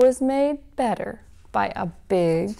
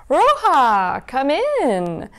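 wolf faking a higher grandma voice; squeaky disguised wolf; 5 semitones higher, much slower than usual. Acted. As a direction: lure her in with a sweet put-on voice. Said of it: "in a high, squeaky voice".

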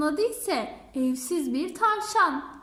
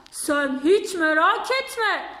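boastful lion; 4 dB louder than usual. Acted.

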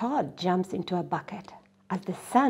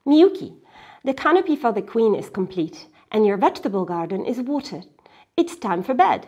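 a light grandfather, brisk, then firm; grandfather listing; 3 semitones higher, 5 dB louder, faster than usual. Acted. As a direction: tick off the chores, then insist. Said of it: "grandfather listing".

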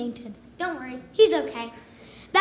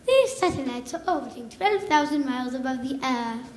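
British narrator; 5 semitones lower than usual. Retold or imitated. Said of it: "with a British narrator".

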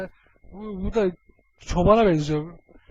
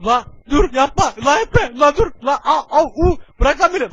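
loud, higher protests; shouting; 3 semitones higher, 8 dB louder than usual. Acted. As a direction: yell to break free. Yakalanan karakter bağırarak karşı koyuyor. (bağırarak itiraz)

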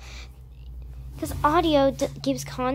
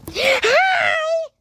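excited greeting; 6 dB louder than usual. Real, not acted. Greeting on face cam.

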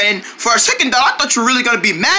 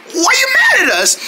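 high, pleading question that falls away; upset protest; 12 semitones higher than usual. Acted. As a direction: cry out in hurt confusion at a friend. Acted quarrel between friends.

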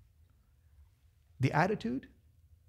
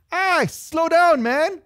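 slow down; 11 semitones higher, 8 dB louder, much slower than usual. Real, not acted. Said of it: "preacher reins himself in".

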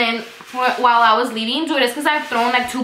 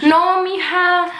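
put-on higher, slower old man's no; old neighbor voice; 6 semitones higher, slower than usual. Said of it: "Should I say it in Spanish?".

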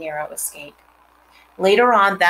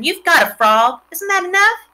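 loud, rising indignant scold; a sister telling off her brother, loud and high; 11 semitones higher, 6 dB louder than usual. A narrator's reading. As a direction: scold him, pitch climbing.

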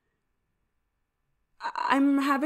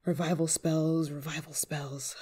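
low, trailing mutter to yourself; searching mutter; 5 semitones lower, 6 dB quieter than usual. Acted. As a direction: mumble while leafing through a spellbook. Muttering while searching the grimoire.

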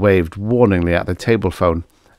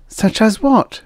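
lightly voiced young woman, higher; a helpful young waitress, raised voice; 3 dB louder than usual. Girl character voice.

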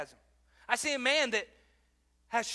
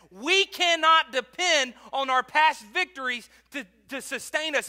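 emphatic repeat; 3 semitones higher, 6 dB louder than usual. Shown as a demonstration. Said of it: "Please listen to that".

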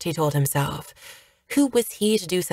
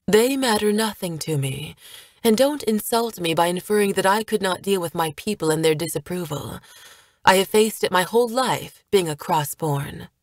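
firm. Acted. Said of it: "her tone firm".

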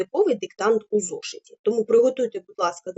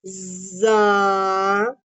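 stretched syllable. Shown as a demonstration. Teacher dictating one syllable. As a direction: hold the syllable «За» long and even. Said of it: "протягуючи кожний склад".

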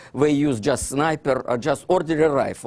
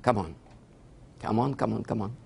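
fading mutter; 5 semitones lower, 8 dB quieter, faster than usual. Retold or imitated. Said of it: "and I think".

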